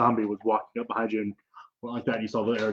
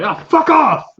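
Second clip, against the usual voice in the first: very high, loud goblin shriek; goblin snarl; 12 dB louder, slower than usual. Acted. Goblin lashing out at someone in a scuffle, high shriek. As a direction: screech it as you strike.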